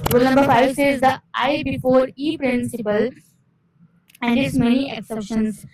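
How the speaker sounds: reads the heading slowly, word by word; slow rule reading. Acted. Teacher slowly reads rule five to her students. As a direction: spell the principle out slowly for the class.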